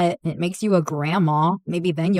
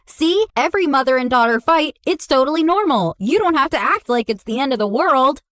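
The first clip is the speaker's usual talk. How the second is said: imitating mom; 4 semitones higher, faster than usual. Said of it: "and she goes".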